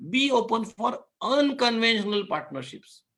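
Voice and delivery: slow, drawn-out weight on "unconventional"; stress on unconventional. Real, not acted. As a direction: harp on "unconventional", stretching it out firmly. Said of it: "I'm harping on the word unconventional".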